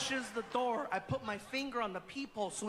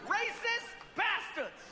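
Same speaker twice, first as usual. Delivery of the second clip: slow, higher indignant mutter; muttered insult; 10 semitones higher, slower than usual. Retold or imitated. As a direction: mutter it slowly, offended. Muffled voice through door.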